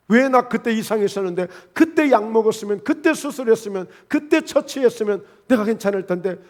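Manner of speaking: 언성을 살짝 높인 항의 연기; 환자의 원망. Acted. 환자가 의사를 원망하는 연기. (의사에게 따지듯 원망하는 말투)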